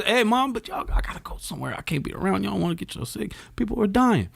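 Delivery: put-on high, hushed, panicky teen; son's voice. Teen son telling his mom he must leave, in a high hushed voice. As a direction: whine it up high like a scared kid.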